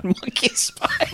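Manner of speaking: slow giggling whisper of the title. Pretend. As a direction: breathe the title through a giggle. Mocking the movie title.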